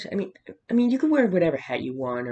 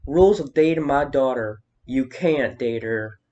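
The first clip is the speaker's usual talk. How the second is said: mock Southern dad, louder at the start; southern accent; 5 dB louder, slower than usual. Imitating a protective country dad, in a mock southern accent. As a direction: put on a Southern drawl for the imitation. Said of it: "giving it a southern accent".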